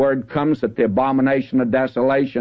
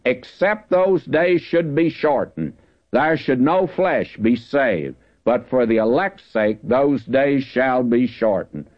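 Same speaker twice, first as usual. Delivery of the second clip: slow, lifted Bible verse; scripture reading; slower than usual. Acted. Preacher reading the promise of shortened days, slow and grave. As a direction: read each clause slowly and gravely.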